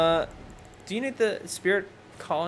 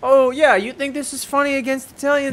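high, loud mock outrage; raised-pitch comic confrontation; mock offended heckler; 11 semitones higher, 6 dB louder than usual. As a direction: challenge them with hammed-up indignation.

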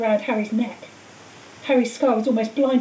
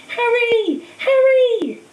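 higher, louder distant calls; calling out; 11 semitones higher, 6 dB louder, much slower than usual. A narrator's reading. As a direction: call his name from far away.

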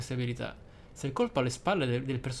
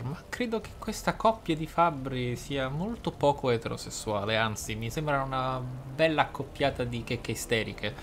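usual speaking voice

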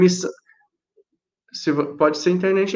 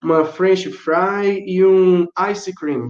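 slow example order; 3 semitones higher, much slower than usual. Shown as a demonstration. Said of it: "aí você fala assim".

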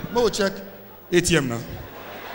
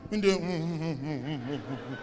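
a man with cash in his mouth humming ever lower and softer; muffled mm sounds; 10 semitones lower, 11 dB quieter than usual. Acted. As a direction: mouth full, fading low hums.

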